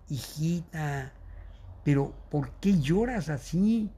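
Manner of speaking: softly retold, gentle fatherly question; slow, soft opening, as if consoling a child; lightly acted tenderness; tender father. Father consoling his crying daughter, retold.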